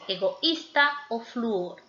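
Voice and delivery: "egoísta" and "flúor" said slowly, vowels in separate syllables; split vowels. Shown as a demonstration. Teacher sounding out hiatus examples slowly. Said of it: "Por ejemplo".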